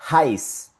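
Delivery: "heiß" with audible H, as hais; sounded H. Shown as a demonstration. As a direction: model "heiß" alone in German. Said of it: "La H con la E".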